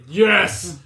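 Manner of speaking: slow, stretched triumphant yes; mock cheer. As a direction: cheer like a fan in the cinema. Imagined cheer at Jar Jar.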